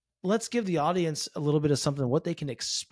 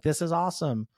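lightly imitating thrilled fans; a touch of mock fan enthusiasm; excited fan messages; 3 semitones higher than usual. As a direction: voice their excitement with a mild lift. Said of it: "Everybody's excited".

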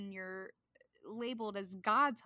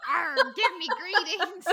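louder, laughing pirate growl; 6 semitones higher, 13 dB louder than usual. Pretend. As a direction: ham it up like a pirate. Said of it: "Mine sounded like a pirate".

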